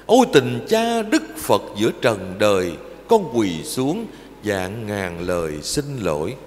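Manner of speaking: poem recitation. Acted. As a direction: intone each line like a prayer to mother.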